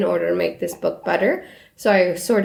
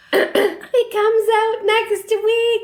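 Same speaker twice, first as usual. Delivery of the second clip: high, slow, gushing fan squeal; mock excitement; 13 semitones higher, much slower than usual. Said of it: "we're gonna be like".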